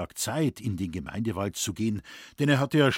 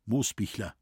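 plain reading voice

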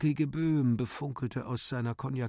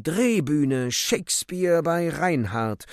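higher, louder actress cry; screaming; 5 semitones higher, 7 dB louder, slower than usual. Acted. The actress screams as the room takes flight. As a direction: shout it out in a panic. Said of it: "Die Schauspielerin schrie".

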